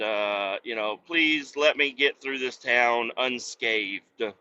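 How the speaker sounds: slow, solemn preacher-style petition; lightly hammed-up sermon voice; mock prayer. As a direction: pray for safe passage with mock piety. Mock prayer for safe passage.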